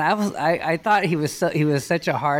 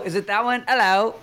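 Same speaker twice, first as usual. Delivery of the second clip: testing a put-on British voice, slightly raised; British accent; 4 semitones higher than usual. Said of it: "British accent".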